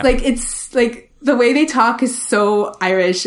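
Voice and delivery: slow, lightly put-on Ulster Irish lilt; Ulster accent. Friend gushing about Derry Girls, in a light Ulster accent. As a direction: slip into a hint of a Northern Irish accent. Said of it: "with these, like, Ulster accents".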